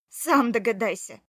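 loud, biting snap back; furious wife snapping at her husband; angry retort. Acted. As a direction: throw it at him in anger. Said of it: "ответила зло".

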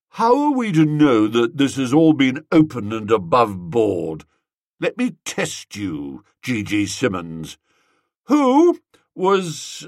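mock-suspicious quiz, pushing harder; Gussie, tipsy interrogator. Gussie quizzes the prize boy, lightly voiced tipsy toff.

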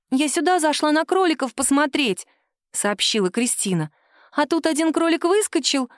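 put-on high, eager child's voice; little girl defending her doll. A daughter defends her doll to her mother, childlike and high. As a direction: plead like a stubborn little girl.

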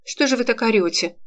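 sharp indignant question; indignant exclaim. Acted. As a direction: snap at him in outrage. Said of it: "возмущённо воскликнула".

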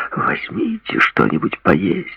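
mock English accent parodying the doctor; slow teasing English-accented imitation of the doctor. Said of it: "с английским акцентом, пародируя врача".

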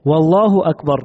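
"والله أكبر" with a clear "و" joined before "الله"; added waw. Shown as a demonstration. Teacher showing students the wrong added waw before Allah. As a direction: start with "وَ" glued onto "الله". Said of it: "بأن يقول".

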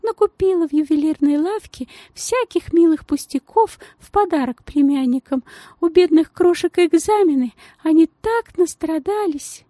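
gushing society lady in a tiny high voice; thin high voice. Acted. The lady chatters on.

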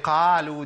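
over-open the mouth on the first syllable of قالوا; faulty qaf. Shown as a demonstration. Teacher questions the wrong reading, faulty qaf. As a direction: say قالوا with a wide-open, thinned ق. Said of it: "دي مش قاف".

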